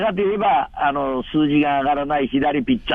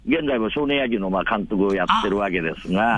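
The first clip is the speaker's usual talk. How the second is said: radio show caller=29; 6 semitones lower than usual. Real, not acted. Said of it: "今お電話がつながっておりますので".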